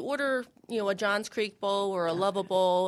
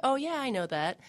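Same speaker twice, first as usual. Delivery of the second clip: imitated customer; 6 semitones higher, 4 dB louder than usual. Imitating customers recognizing the word.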